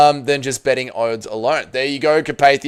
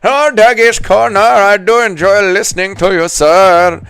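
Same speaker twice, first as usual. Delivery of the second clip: high, louder put-on toff praising the show; mock posh fan voice; 7 semitones higher, 7 dB louder than usual. Streamer mocking a fan's praise of his channel in a posh voice. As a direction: ham up a posh admirer.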